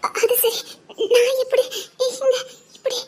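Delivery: tearful. Acted. Frightened girl left with stranger.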